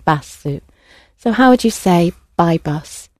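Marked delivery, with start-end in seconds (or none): 0.0-0.6 "basu" with a softer "a" and an added final vowel; Japanese pronunciation. Shown as a demonstration. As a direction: say "basu" softly opened on "a", vowel on the end. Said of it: "a more of a softer a sound at the beginning".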